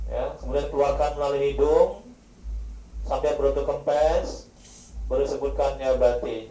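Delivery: slow calm guidance; calm instructing voice; guided zikir. Real, not acted. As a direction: talk them gently through breathing.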